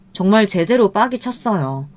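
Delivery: ordinary delivery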